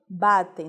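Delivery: Batem. said loud, the final m as a nasal "ei"; batem sounds like batei. Shown as a demonstration. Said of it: "o som não é de M, o som é de I". (Batem pronunciado como batei, bem marcado)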